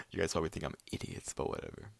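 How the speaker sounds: soft, fast muttered aside. Real, not acted. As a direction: mutter it under your breath. Muttered self-deprecating aside.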